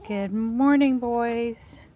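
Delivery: high-pitched hello to the animals; pet-talk greeting. Real, not acted. Owner says good morning to her boys, high pet-talk voice.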